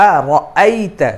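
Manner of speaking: আ রাআইতা with a clear glottal hamza on আ; correct hamza. Shown as a demonstration. Teacher models the right hamza for students. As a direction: stop the throat briefly before আ. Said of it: "Hamza জবর".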